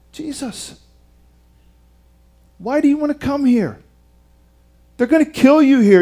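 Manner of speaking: imagined plea, starting hushed; pleading warning. Retold or imitated. Imagined plea warning Jesus away.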